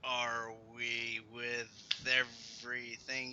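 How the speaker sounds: slow, drawn-out words; talking slowly while multitasking; slow motion. Real, not acted. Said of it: "I talk slowly when I'm trying to do multiple things".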